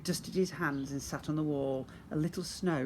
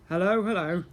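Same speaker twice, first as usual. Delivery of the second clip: loud, bold policeman's hello; a hearty copper's hello; policeman's greeting; 3 semitones higher, 7 dB louder than usual. A narrator's reading. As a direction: call it out like a bobby on the beat. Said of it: "said Officer Pugh".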